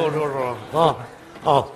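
ordinary talk, nothing marked

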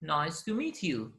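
very slow teaching delivery; listen-and-repeat model. Shown as a demonstration. Teacher repeats the recording for learners, slow model. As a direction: draw each word out for learners. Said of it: "and repeat و قرار شما تکرار کنید".

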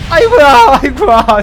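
surprised exclamation. Real, not acted. Rocket landing wildly, exclaiming.

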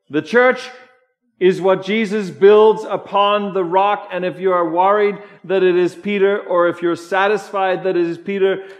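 loud, high sermon delivery; preaching at full force. Acted. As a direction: proclaim it to the whole congregation.

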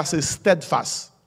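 steadfast spoken slowly in careful English; slow English steadfast for the congregation; English word steadfast. Shown as a demonstration. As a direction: draw out steadfast word by word, stɛdfas. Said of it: "mon anglais".

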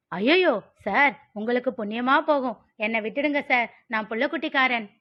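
quick, hapless plea for release; hammed-up desperate pleading; panicky begging. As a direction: beg the officer to let you go. Acted suspect begging police to release him.

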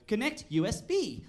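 stilted imitation of the car's assistant; carefully spaced, lightly put-on command voice; weird command voice. Driver giving the car's voice system a command in an odd matched voice. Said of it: "I put this other weird voice on to try and match her voice".

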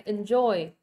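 "enjoy" with the weight on JOY; light en-, stressed falling JOY in "enjoy"; second-syllable stress. Shown as a demonstration. Teacher confirms the answer for students, second-syllable stress. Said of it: "âm số hai các bạn".

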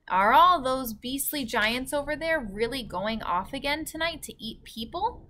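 put-on high, anxious little girl; girl's voice. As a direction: ask it as the worried girl. Sophie's voice in read story.

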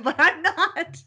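high, drawn-out laughing admission. Real, not acted. Admitting to the interviewer she's no outdoors person, laughing.

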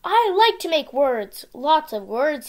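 loud gleeful yell; excited shout. Acted. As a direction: whoop it out with glee. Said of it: "he said".

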